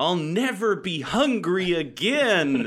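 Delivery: high, drawn-out dramatic yell. Describing a movie scene, retelling a character's yell. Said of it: "And she yells out".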